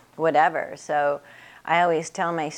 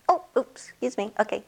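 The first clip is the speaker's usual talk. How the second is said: flustered client; 6 semitones higher than usual. Retold or imitated. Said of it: "client apologizing".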